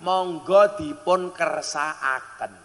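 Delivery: slow, courteous monggo dipun kersakaken; refined polite offer. Shown as a demonstration. Host offering guest everything, slowly and politely. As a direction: draw it out like a gracious host. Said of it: "cara bahasa Jawane alus".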